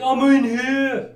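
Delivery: high, slow, loud holler; mock distant reply; calling back. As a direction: stretch it out as if answering from another room. Acts out patient calling back.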